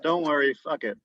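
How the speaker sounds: lightly Jamaican singsong; a hint of Jamaican lilt; Jamaican accent. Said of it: "Your Jamaican accent is spot on".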